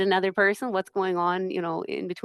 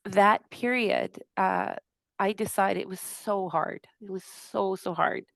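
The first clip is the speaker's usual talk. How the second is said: tearful. Real, not acted. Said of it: "gonna try not to cry".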